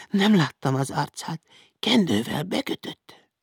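high-pitched, timid answer; scared servant girl reporting; frightened girl. A narrator's reading. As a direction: answer the interrogator in a small high voice. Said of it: "A hindu lány remegve állt előtte".

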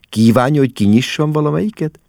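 high, quick chirpy offer; chirping. A narrator's reading. Mama offers to open a suitcase, chirping. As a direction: chirp the question eagerly. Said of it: "csicseregte mama".

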